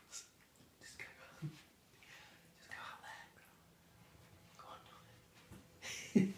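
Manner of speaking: very soft, whispery aside; hushed aside. Real, not acted. Boss sending a darling out mid-message, hushed aside. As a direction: drop right down, off to the side.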